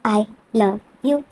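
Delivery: drawn-out, very slow I love you; a hesitant, dragged-out I love you; slow confession. Retold or imitated. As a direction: stretch I love you out slowly and shyly. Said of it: "अब मैं बोला था कि".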